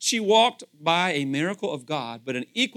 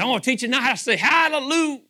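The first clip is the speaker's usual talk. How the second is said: mock excited preacher; 7 semitones higher, 5 dB louder, faster than usual. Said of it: "He goes".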